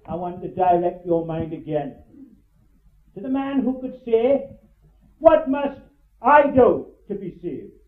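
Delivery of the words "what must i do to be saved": what must I do, the word I slowed and leaned on; stress on I. Shown as a demonstration. Preacher to congregation, stressing I. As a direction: press hard on I, slow and weighty. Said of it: "I emphasize that word".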